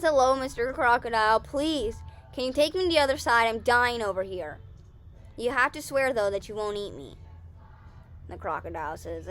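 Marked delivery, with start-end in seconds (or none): 0.0-7.2 lightly voiced begging bunny, louder; pleading bunny. Bunny asking a crocodile for a ride, pleading. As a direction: plead a little theatrically, raised voice.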